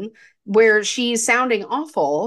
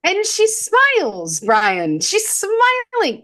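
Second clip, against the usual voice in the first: incredulous; 8 semitones higher, slower than usual. Real, not acted. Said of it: "incredulous about ending".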